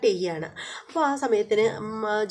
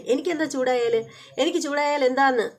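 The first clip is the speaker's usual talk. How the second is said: wife snapping back, a touch higher and louder; heated retort; 5 semitones higher, 3 dB louder than usual. Retold or imitated. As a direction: push back at the husband with mild heat. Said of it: "നീ എന്തിനാ ചൂടാവുന്നത്?". (ഭർത്താവിനോട് ചൂടായി തിരിച്ചടിക്കുന്ന ഭാര്യ, ചെറിയ ദേഷ്യത്തോടെ)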